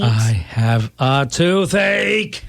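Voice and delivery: slow, drawn-out frustrated shout; exasperated yell. Acted. Husband, fed up, shouts his complaint at his oblivious wife. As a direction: bellow it out at last.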